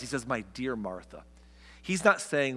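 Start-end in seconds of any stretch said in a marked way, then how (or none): 0.3-1.2 softly said. Retold or imitated. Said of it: "Look what he says".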